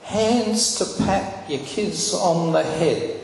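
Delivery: lightly voiced divine comfort; still small voice of God. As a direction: speak gently as God to a broken man. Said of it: "And he said".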